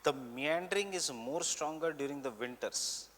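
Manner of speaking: measured note-giving, repeating phrases for writers; teacher dictating notes for students to copy; classroom dictation. Real, not acted. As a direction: dictate in short chunks with long pauses.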